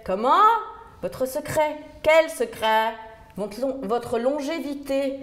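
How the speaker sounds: imitation d'une sourde qui crie, voix haute; dame sourde qui crie. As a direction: forte et aiguë, sans entendre. Dame sourde fait répéter, crie. (la centenaire sourde fait répéter, criant)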